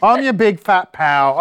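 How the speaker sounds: slow, dragging goofy oaf; drawn-out dim-witted pal voice; dopey character voice. Acted. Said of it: "I was doing a comedic riff".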